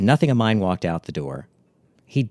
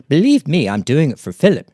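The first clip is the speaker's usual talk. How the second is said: emphatic; 7 semitones higher, 6 dB louder than usual. Retold or imitated. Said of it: "she responded".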